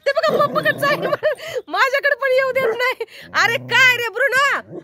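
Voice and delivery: high, loud and laughing; amused exclaiming. Real, not acted. Laughing at jealous Bruno's antics, amused exclaiming. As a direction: exclaim through laughter, pitch lifted.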